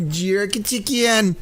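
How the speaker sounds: slow, mock Jamaican take on "Jerk chicken."; bad Jamaican accent. Giggling streamer says it again in a bad Jamaican accent. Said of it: "with a really bad Jamaican accent".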